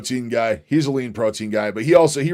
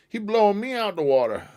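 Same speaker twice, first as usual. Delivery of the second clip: much higher, mock squeaky repeat; high goofy voice; 10 semitones higher than usual. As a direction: squeak it out like a cartoon. Repeats line in silly voice.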